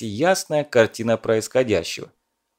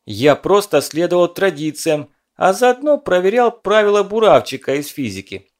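excited; 7 semitones higher, 4 dB louder than usual. A narrator's reading. Lyova justifies himself, excited.

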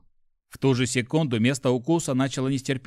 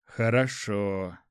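low, drawn-out word of relief; relieved; 4 semitones lower, much slower than usual. A narrator's reading. Lad hears his hyena will recover, relieved. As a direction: let it out slowly, lower, relieved. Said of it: "облегчённо произнёс Жюль".

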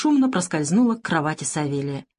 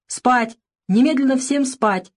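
higher, sharp command to sleep; stern order; 6 semitones higher, 3 dB louder, slower than usual. A narrator's reading. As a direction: bark the order at the children. Teacher orders lights out. (строгий приказ воспитательницы)

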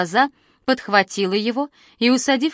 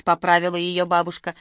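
usual speaking voice

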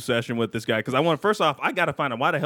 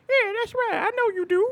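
much higher, sultry radio host impression. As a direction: purr it like a late-night hip-hop DJ. Imitating radio host Precious.

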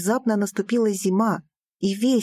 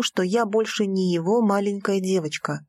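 plain reading voice

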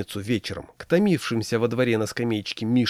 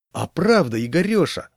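livelier, higher and louder at the end; perking up; 6 semitones higher, 4 dB louder than usual. A narrator's reading. Friend chiming in at the card table, perking up. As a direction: suddenly perk up with interest. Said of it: "оживился Левандовский".

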